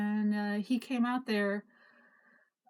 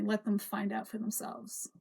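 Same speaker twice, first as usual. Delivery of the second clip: arrogant; 5 dB quieter than usual. Retold or imitated. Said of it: "he says very arrogantly".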